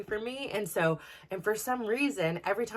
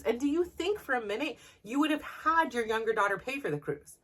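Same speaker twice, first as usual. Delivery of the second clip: retold angry retort; 3 semitones higher than usual. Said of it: "it just infuriates me".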